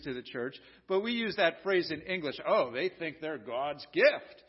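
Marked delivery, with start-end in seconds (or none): 2.5-4.4 slow, drawn-out mock admiration; lightly sarcastic, lower and stretched out; sarcasm, lower and unhurried; mildly sarcastic. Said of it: "we say it kind of sarcastically".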